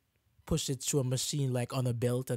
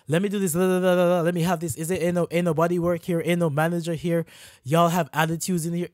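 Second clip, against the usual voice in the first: imitating a bossy customer, rattling off complaints; mock an entitled rant; 2 semitones higher, 4 dB louder than usual. Customer bossing staff around, mock entitled attitude. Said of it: "acting like you run this place".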